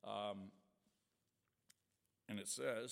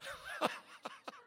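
breathless laugh; 5 dB quieter than usual. Real, not acted. Laughs at own story.

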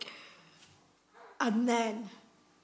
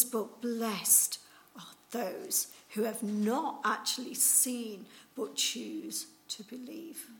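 solemn; slower than usual. Retold or imitated. Jesus solemn teaching line.

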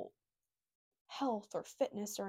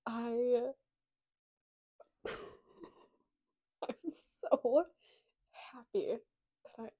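bursting with joy; excited happy burst; 2 semitones higher, 3 dB louder, much slower than usual. Real, not acted. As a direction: blurt out how happy you are, a little louder. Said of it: "I mean, you can tell".

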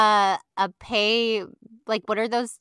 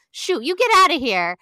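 mock yell at bee; 7 semitones higher, 6 dB louder than usual. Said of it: "He's like".

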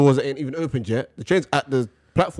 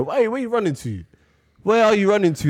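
why are you running, exasperated; exasperated call; 7 semitones higher than usual. Retold or imitated. Ranting at commuters rushing the train, exasperated mock yell.

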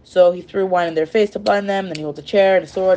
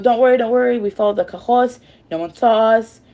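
raised, louder imitation of urgent reassurance; eager reassurance; 5 semitones higher, 4 dB louder than usual. Men reassuring an angry Henry, eager and louder. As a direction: insist eagerly, pitched up.

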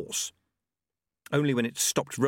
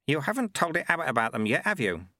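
knowing sweeper, higher then dropping; Lutze; 5 semitones higher than usual. Acted. Sweeper catching monk hiding things, knowing. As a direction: needle him with a knowing question.

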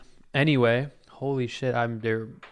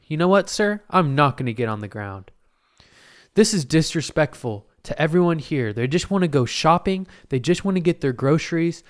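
heroic speech; 4 semitones higher than usual. Retold or imitated. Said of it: "And I'm like".

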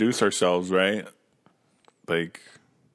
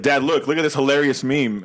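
put-on eager kid; 4 semitones higher, 3 dB louder than usual. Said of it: "for us, it's like".

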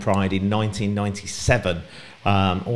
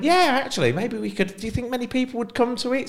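excited; 14 semitones higher than usual. Retold or imitated. Retelling excited planning chat.

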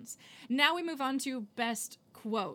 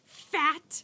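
mock-indignant, louder punch; indignant outburst; 4 semitones higher, 6 dB louder than usual. Acted tirade from the film.

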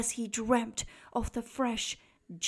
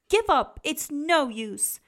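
taunting shout; 3 semitones higher, 5 dB louder than usual. Acted. Bruce taunts Cyril to give up, loud. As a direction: shout him down.

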